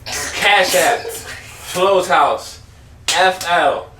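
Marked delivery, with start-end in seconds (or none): 3.1-3.9 letter by letter, slowly; slow spelling. Shown as a demonstration.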